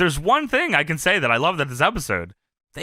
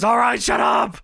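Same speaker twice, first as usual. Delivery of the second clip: mock shout, higher pitched; Kurt yelling; 5 semitones higher than usual. Co-host imitating a wrestler in an argument, mock shout. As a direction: bark it lightly like a fed-up wrestler. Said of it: "Kurt yells".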